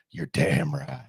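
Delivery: very low, intense Batman-style voice; Bane-like coach voice. Retold or imitated. Football coach coaching a player up, in a Bane voice. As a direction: sink deep into a weird, intense superhero rasp. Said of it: "Bane voice or, like, this Batman voice".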